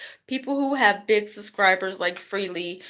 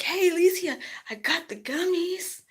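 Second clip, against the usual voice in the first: coworker voice; 11 semitones higher than usual. Retold or imitated. Coworker voiced, much higher.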